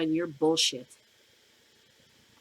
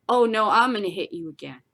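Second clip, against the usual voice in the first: laughing mock reply; 4 dB louder than usual. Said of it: "You're like".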